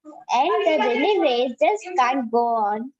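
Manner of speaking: measured, singsong recital with rise and fall; poem recitation. Shown as a demonstration. Student reciting a poem for an online class, singsong recitation. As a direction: recite it line by line, pausing between phrases. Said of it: "So let's start".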